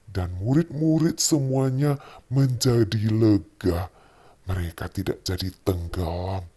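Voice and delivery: put-on gentle storytelling voice for a child; bedtime story narration. Father tells Bible story at bedtime.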